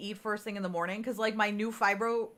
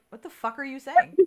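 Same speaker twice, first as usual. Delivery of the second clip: incredulous; 4 semitones higher, 5 dB louder than usual. Retold or imitated. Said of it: "And I'm like".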